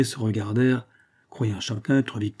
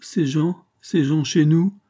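put-on higher, whimpering old wife; 5 semitones higher, 3 dB louder, slower than usual. A narrator's reading. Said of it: "elle continua à gémir".

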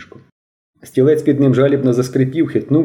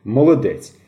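laughing praise; 4 semitones higher, 4 dB louder, slower than usual. A narrator's reading. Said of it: "потім розсміявся".

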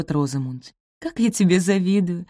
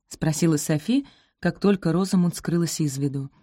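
ordinary delivery, nothing marked

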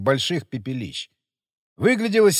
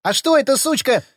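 angry retort; 10 semitones higher, 5 dB louder than usual. A narrator's reading. Heated quarrel.

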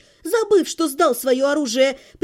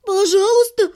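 babbled plea; 6 semitones higher, 6 dB louder than usual. Acted. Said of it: "пролепетала она".

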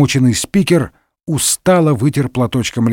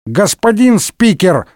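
higher, slow, congested call; stuffed-nose voice; 6 semitones higher than usual. A narrator's reading. Member calling the speaker, congested head-cold voice. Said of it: "раздался чей-то насморочный голос".

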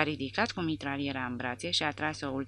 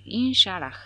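mild invocation; 5 semitones higher, 7 dB louder than usual. A narrator's reading. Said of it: "să spunem".

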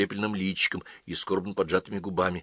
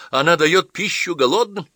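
high, louder, earnest enthusiasm; exclaiming; 10 semitones higher, 6 dB louder than usual. Acted. Boy praises girl's mother, exclaiming. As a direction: declare it with admiration. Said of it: "воскликнул Джон".

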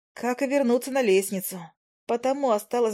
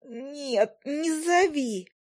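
slow, high hiss around a dish in the teeth; hissed through a mouthful; hissing through a gag; 6 semitones higher, much slower than usual. A narrator's reading. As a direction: hiss it urgently, mouth full. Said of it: "и тут же зашипела".

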